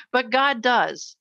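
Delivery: each word drawn out slowly, set apart; slow, tender payoff line; slow punchline. Real, not acted. Punchline of the seat story.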